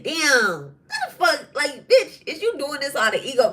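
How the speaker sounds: heated disbelief, partly laughing; retold angry outburst. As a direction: vent it like you can't believe it. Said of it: "I'm heated. I'm angry".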